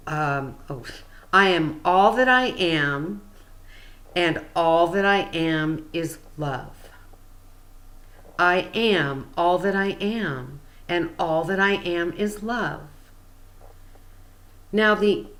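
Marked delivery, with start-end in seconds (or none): 1.3-6.9 measured, deliberate affirmation; spaced out in careful phrases; slow. Shown as a demonstration. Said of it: "I'm gonna say it slow". 8.4-12.9 deliberate, evenly paced affirmation; unhurried, with a pause between phrases; slow. Shown as a demonstration. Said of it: "I'm gonna say it slow".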